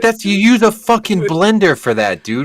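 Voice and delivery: high, giggling incredulity; laughing high-pitched disbelief at the shaken milkshake. Retold or imitated. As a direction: ask it cracking up, way up high. Mocking friend's milkshake.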